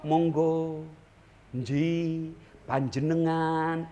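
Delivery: soft, low polite Javanese Solo voice; bow your words like a polite Solo Javanese; Javanese Solo accent. Retold or imitated. Preacher mimics a polite Solo Javanese greeting, soft and low. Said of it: "Kalau orang Solo".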